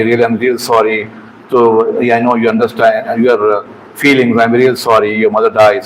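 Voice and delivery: a gentle, sincere sorry to a grieving patient; sincere apology. Shown as a demonstration. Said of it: "So say sorry".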